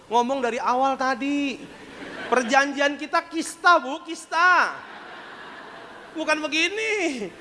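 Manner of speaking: high, drawn-out exasperated scolding; mock-scold her, stretching the phrase ends upward; omelan kesal. Retold scolding of the woman. (omelan tiruan bernada tinggi)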